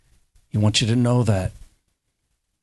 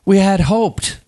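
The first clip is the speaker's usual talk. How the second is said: incredulous disciple; 9 semitones higher than usual. Retold or imitated. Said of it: "he's like".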